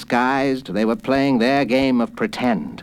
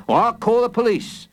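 raised, put-on shopkeeper voice; higher-pitched affronted scolding; indignant grocer; 10 semitones higher than usual. A narrator's reading. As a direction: warn the child with mock offence. Grocer threatens boy.

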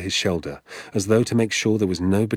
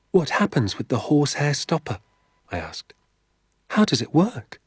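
put-on eager boy; 7 semitones higher than usual. Danny asks eagerly.

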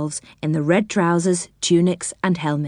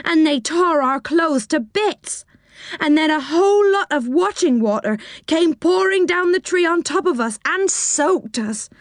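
high, woeful little sailor doll; 9 semitones higher than usual. Acted. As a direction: pitch up and tell the tale of woe.

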